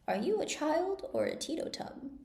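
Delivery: put-on a fussy old sheep peering over spectacles; old sheep shopkeeper. A narrator's reading. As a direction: sheep shopkeeper lecturing Alice, lightly voiced.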